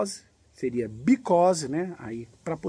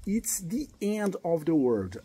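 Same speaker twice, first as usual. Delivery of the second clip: whispered. Shown as a demonstration. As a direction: breathe it out without voice. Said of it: "Repara que o the".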